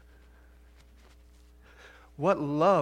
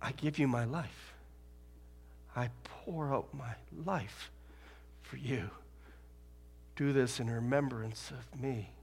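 tender Jesus; 2 semitones lower, 8 dB quieter than usual. Retold or imitated. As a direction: speak it gently like a last supper. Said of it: "He said".

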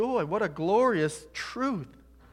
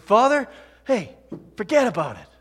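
higher, louder wiseguy "Father, hey"; mock Brooklyn Jesus; 7 semitones higher, 11 dB louder than usual. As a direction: toss it off like a Brooklyn guy. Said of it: "Jesus didn't say".

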